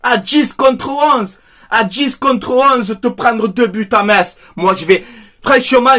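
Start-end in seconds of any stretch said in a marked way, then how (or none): 0.0-4.4 haut et très lent, incrédule; étire chaque mot, dépité; exaspération traînée. Real, not acted. Fan ranting about lost match. (répété lentement et plus haut, exaspéré)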